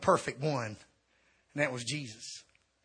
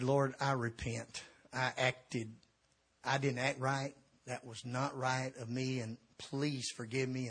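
tearful prayer; 5 semitones lower, 9 dB quieter than usual. Retold or imitated. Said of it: "bawling and squalling".

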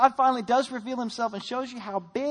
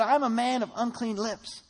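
desperate confession; 3 semitones higher, 4 dB louder than usual. Acted. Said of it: "he said".

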